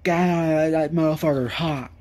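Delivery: lightly voiced angry grandpa cursing at hot soup. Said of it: "I'll be like angry grandpa".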